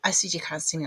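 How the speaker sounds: normal talking voice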